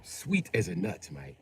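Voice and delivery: slow, soft mock British; mock British phrase. Repeating what the Brit says, a slow mock British accent. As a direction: drawl it like a British mate. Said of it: "I've heard him say it".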